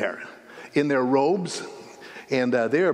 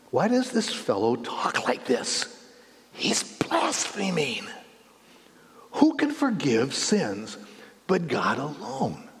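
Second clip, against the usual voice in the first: slow, hushed suspicious murmur; muttered thoughts; slower than usual. Acted. Teachers of the law thinking to themselves, hushed and slow. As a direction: whisper it as a private accusation. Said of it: "thinking to themselves".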